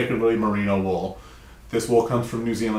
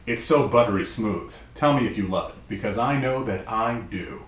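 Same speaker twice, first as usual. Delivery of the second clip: announcer voice. Acted. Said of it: "This is my announcer voice".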